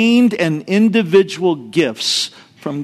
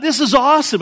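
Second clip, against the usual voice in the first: retold excitement; 9 semitones higher, faster than usual. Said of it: "I was so excited".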